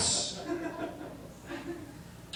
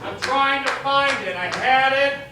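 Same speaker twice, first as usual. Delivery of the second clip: much softer, murmured to himself; hushed self-pep talk; 3 semitones higher, 7 dB quieter than usual. Acted. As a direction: talk yourself up under your breath.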